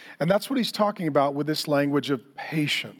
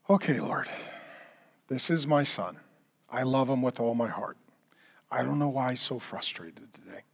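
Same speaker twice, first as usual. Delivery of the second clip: soft prayer; 4 semitones lower, 6 dB quieter than usual. Retold or imitated. Retold prayer while being hit.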